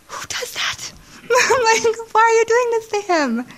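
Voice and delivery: high, tearful cry; squeaky weeping voice. Retold or imitated. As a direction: ask through tears, voice breaking.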